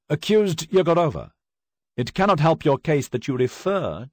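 loud, high final warning; stern judge. Acted. Judge warning the accused, loud and stern. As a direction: lay down the law from the bench.

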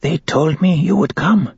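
put-on high, frail old woman's voice; cracked whisper. A narrator's reading. Old woman greeting the awaited royal one, cracked and high. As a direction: keep it high and cracked, like one worn out by crying. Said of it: "her voice a cracked whisper".

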